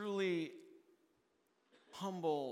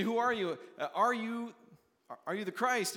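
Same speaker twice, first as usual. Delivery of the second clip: higher and louder, pressing questions; insistent interrogation; 6 semitones higher, 4 dB louder than usual. Acted. Priests from Jerusalem pressing John, loud insistent questioning. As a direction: demand an answer from him.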